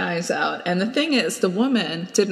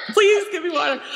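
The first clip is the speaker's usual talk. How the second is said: pained plea; 11 semitones higher than usual. Retold or imitated. Host mocks her guest's pained plea for water. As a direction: imitate a parched, pained request for water. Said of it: "That's such a pained way of asking for water".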